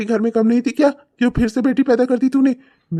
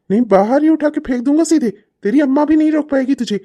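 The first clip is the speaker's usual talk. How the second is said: raised, loud threatening; angry threat; 5 semitones higher, 3 dB louder than usual. Acted. Father threatening to throw his daughter out, angry.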